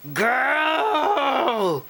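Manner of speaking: sassy fish. Acted. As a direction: toss it back with attitude. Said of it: "said the big fish".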